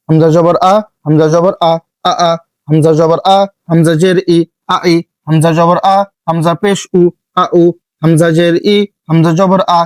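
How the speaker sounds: brisk chanted drill, আ ই উ short and unstretched; rhythmic teacher's harakat drill; quick recitation drill. Shown as a demonstration. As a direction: rattle off each syllable once for students to repeat. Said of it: "আমি এক একবার করে বলে যাব একটু দ্রুত".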